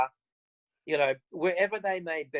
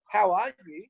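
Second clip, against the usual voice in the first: chirpy greeting. Retold or imitated.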